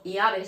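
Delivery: "iave" begun with a plain y sound, ya-ve; "iave" as Andalusian yeísmo, ll turned to y. Shown as a demonstration. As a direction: say "iave" with y, no palatal ll. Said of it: "en vez de pronunciar una L".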